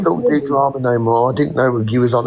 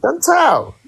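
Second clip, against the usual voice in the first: calling out. Real, not acted. Calling out to a friend.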